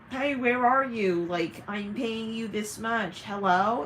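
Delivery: loud, slow mock demand; demanding, abusive. Someone paying demands to know where you are, mock-demanding. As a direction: imitate an entitled payer calling someone out. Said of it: "Kind of energy, okay? Very, ab-, honestly abusive".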